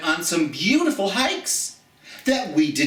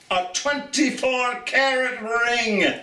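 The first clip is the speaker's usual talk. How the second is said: punchline delivery; 8 semitones higher than usual. Acted. Joke punchline.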